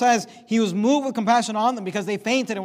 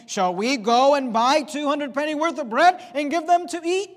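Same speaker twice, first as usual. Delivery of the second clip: higher, mildly sarcastic question; a little sarcastic; 6 semitones higher than usual. Acted. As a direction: toss it back with a hint of sarcasm. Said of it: "I think it's a little sarcastic".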